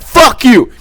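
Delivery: high mock shout; acted-out belligerent yell; imitated angry man. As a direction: yell it out to cut through the crowd. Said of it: "he stood out".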